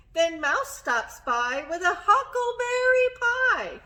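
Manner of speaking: lively, high storytelling voice; excited narration. A narrator's reading. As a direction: build excitement for kids. Excited read-aloud narration.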